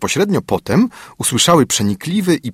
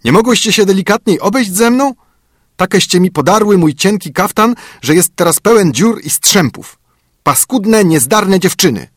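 high, louder thin dwarf voice; thin little voice; 10 semitones higher, 4 dB louder than usual. A narrator's reading. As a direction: squeak out the complaint like a cross dwarf. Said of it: "swoim cienkim głosikiem".

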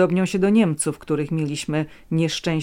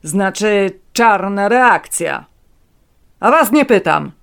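snarling; 4 semitones higher, 10 dB louder than usual. A narrator's reading. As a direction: snarl it at the old man. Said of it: "warknął do dziadka".

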